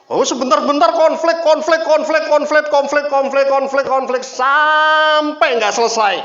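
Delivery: high, shouted, hammering repetition; loud comic rant on one high note; hammed-up exasperation. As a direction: pound out each repeat at a high pitch, then stretch the ending. Acts out the endlessly repeated marital conflicts.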